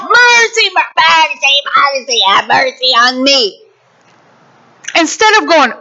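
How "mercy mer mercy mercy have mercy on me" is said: pleading servant. Acted. Fellow servant crying out to the unmerciful servant, mock pleading. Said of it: "his fellow servant cries out".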